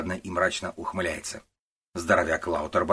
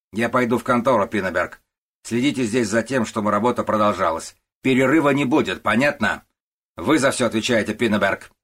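loud, higher barked orders; loud commanding boss; 4 semitones higher, 7 dB louder than usual. Acted. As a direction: order the clerk about sharply. Начальник отдаёт приказы. (начальник громко командует Пиннебергом)

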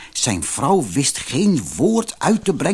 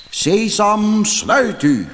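pitched high and louder, a called command; the chief shouts the spell from inside the cave; calling out; 9 semitones higher, 3 dB louder, much slower than usual. A narrator's reading. Robber chief calls from inside the cave, loud command. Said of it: "hoorde Ali Baba roepen".

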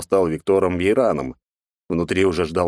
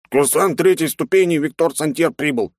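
fake hoarse voice; 9 semitones higher than usual. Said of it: "Специально старался говорить хрипло".

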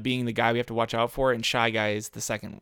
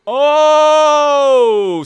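excited yell; 14 semitones higher, 13 dB louder than usual. Real, not acted. Racing game big moment.

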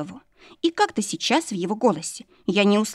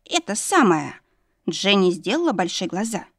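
high, folksy maid voice, lightly voiced; a simple village maid spilling gossip; gossiping servant girl; 3 semitones higher than usual. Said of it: "продолжила шептать служанка".

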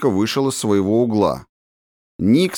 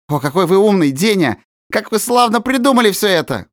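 high, eager flattering cry; exclaiming; 9 semitones higher than usual. A narrator's reading. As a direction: gush with delight at the plan. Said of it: "вскричал Никс". (высокий восторженный возглас)

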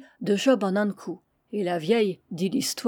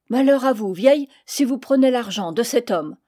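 heated warning; 3 semitones higher, 4 dB louder than usual. Acted. Heated quarrel over paying.

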